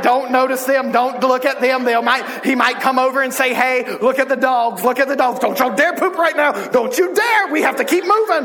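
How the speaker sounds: lightly voiced flustered neighbor, loud and high; imitating a neighbor desperate to get away; alarmed neighbor. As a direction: urgently warn them off, hammed up. Neighbor anxiously avoids noisy family.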